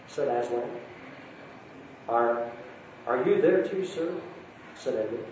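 a lightly voiced storybook reading with gentle lifts for each character; story narration. A narrator's reading. Speaker reading Narnia to the congregation, storytelling voice. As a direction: read it aloud like a bedtime story to a hall.

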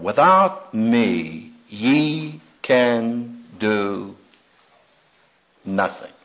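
very slow, fading to soft; solemn slow. Retold or imitated. Quoting the Lord's words to the congregation, slow and hushed. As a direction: let each word sink, dying away. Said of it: "fell from the lips of our Lord".

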